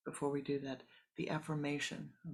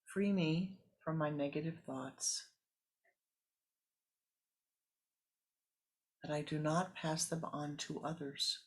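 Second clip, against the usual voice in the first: prayerful affirmation. Shown as a demonstration. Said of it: "Repeat these words out loud".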